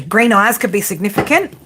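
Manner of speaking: a burp slipping into the words; a real burp while talking; burped mid-line. Real, not acted. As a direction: say it with a small burp caught in it. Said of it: "I just burped when I said that".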